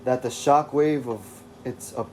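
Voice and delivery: put-on loose British accent for David; attempted British accent. David telling the reader about his mind, in a rough British accent. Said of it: "this will have to do".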